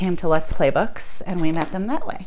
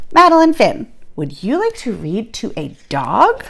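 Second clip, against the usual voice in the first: librarian voice; 4 semitones higher than usual. Acted. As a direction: call her name up high, then ask gently. Librarian's voice in story.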